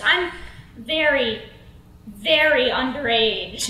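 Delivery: 'very' said twice, each set apart by a pause; slow, deliberate 'very, very underage'; emphatic excuse. Acted. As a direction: pause before each 'very', then stretch 'underage'. Comic delivery of her cure-all excuse.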